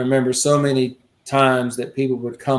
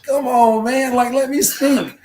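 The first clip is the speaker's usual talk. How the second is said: high, laughing plea; laughing protest; 11 semitones higher, slower than usual. Real, not acted. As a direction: laugh through the complaint. Laughing at Larry's refusal.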